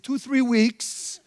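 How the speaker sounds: slow, easy-going island host; laid-back drawl. Retold or imitated. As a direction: stretch it out, no hurry at all. Imitating laid-back Tahitian hosts.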